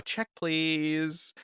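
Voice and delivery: high, polite restaurant customer. Pretend. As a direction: call the waiter over. Pretend ordering at restaurant.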